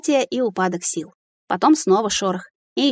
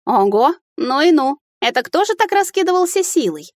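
louder, much higher, amused astonishment; amazed fairy; 7 semitones higher, 3 dB louder than usual. Acted. Fairy discovering the aftermath, delighted surprise. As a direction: marvel at the power, wide-eyed.

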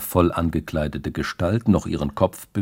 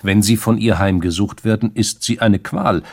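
louder, sudden flare of anger; 4 semitones higher, 6 dB louder than usual. Acted. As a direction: let unexpected anger burst out. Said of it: "mit einem Ausdruck unerwarteter Wut".

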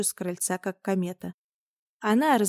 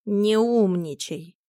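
sighing; 4 dB louder, slower than usual. Acted. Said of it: "вздохнул Миун".

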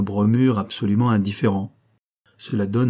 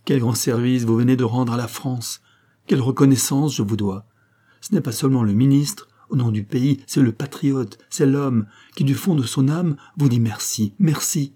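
with warmth; 3 semitones higher than usual. Acted. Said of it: "lui dit-il avec chaleur".

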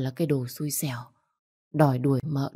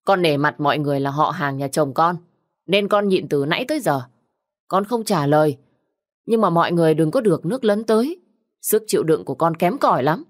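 shouting warning; 3 dB louder than usual. Acted. Widow shouts a warning at the husband's relatives. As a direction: snap at the whole family. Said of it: "Bị mợ Giao quát lớn".

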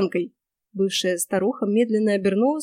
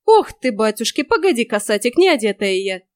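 put-on louder, flustered old witch; flustered fuss; 5 dB louder than usual. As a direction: fuss in a panic, caught undressed. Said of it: "сполошилась карга". (всполошённая карга)

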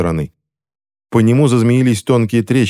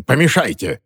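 higher, repeated order; commanding; 5 semitones higher than usual. A narrator's reading. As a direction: press the order with pitch lifted. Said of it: "велел Грегсон уже своим".

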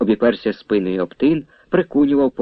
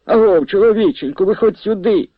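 loud, high call across the ravine; 9 semitones higher, 4 dB louder than usual. A narrator's reading. Priest calls the mower out of the ravine, loud high hail. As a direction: shout him out of the reeds. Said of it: "нагукав Авраам".

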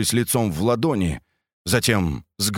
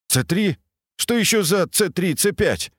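grumbling; 8 semitones higher than usual. A narrator's reading. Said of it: "Недовольно пробурчал Сергей".

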